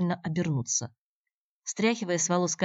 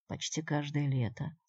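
softer, slow echo stressing каждое; skeptical echo; 5 dB quieter than usual. Acted. Andrey echoes Natasha, doubtfully. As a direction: mull her words over doubtfully. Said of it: "echoing her words".

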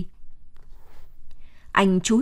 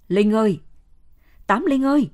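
calling near tears. Acted. Chín Xùm searching for lost Linh, calling near tears. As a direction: call out into the dark as if about to cry. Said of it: "gọi như mếu".

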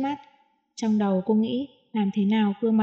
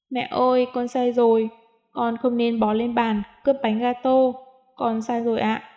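put-on a small child crying out her apology; child sobbing. Little girl apologizing to her mother, sobbing lightly. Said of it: "nghe Nịu Nịu khóc nức nở".

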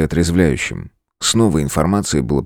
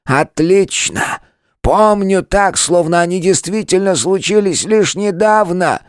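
drawn out; 12 semitones higher, slower than usual. A narrator's reading. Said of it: "протянул он".

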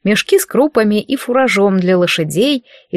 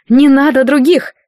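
shouted in a burst, higher and louder; bold cry; 5 semitones higher, 4 dB louder than usual. Acted. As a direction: blurt it out defiantly. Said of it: "дерзко выкрикнула Агнесса". (дерзкий выкрик)

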